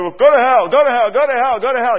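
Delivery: imitating people yelling in anger; mock yelling. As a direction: fling it like an angry insult. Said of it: "People are yelling at each other".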